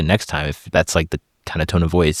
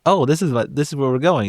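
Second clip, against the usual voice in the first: much higher happy discovery; pleased wife; 8 semitones higher than usual. Retold or imitated. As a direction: act delighted and surprised. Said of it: "So then the wife says".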